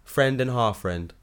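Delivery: slow, slurred tipsy drawl; drunk new voice. Acted. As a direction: sound a bit drunk and muddled. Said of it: "I like this new voice".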